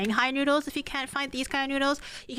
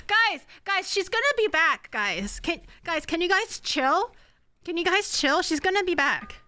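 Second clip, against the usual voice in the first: excited pleading; 4 semitones higher than usual. Real, not acted.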